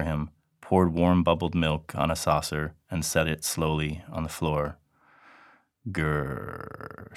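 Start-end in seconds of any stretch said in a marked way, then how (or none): 5.9-7.1 soft guttural cat growl. Acted. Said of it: "she cried".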